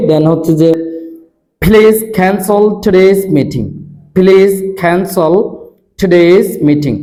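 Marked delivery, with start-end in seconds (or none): 1.6-7.0 "please cancel" drawn out very slowly with breathy stops; slow drill. Shown as a demonstration. Teacher slowly modelling the drill sentence for students. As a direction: stretch each word slowly, puffing the stops. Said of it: "ফ sound, খ sound, ঠ sound".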